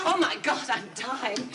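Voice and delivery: panting after climbing stairs; breathless, winded from the stairs; out of breath. Acted. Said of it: "Did you just climb all those stairs".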